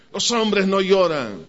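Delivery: slow, drawn-out mock macho dad; mock stern father. Father telling his sons that men don't cry, slow mock sternness. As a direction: lay down the rule like a stern father, slowly.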